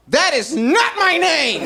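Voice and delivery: slow, stiff and formal; prim, slow protest to a gangster; mock dignified reply. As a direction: clear your throat and say it with wounded pride. Answering a gangster, clearing throat.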